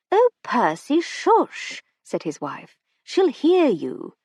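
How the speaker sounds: high, anxious hushing; hushing wife. A narrator's reading. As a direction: hush him urgently.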